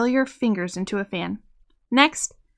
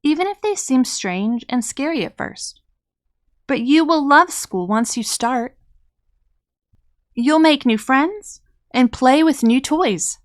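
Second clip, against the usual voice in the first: gentle. Acted. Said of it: "she told him gently".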